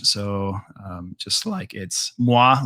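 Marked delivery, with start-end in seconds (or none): 2.2-2.6 moi said as "mwah"; French pronunciation. Shown as a demonstration. Teacher explains it is like me in French, French pronunciation. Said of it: "like me in French".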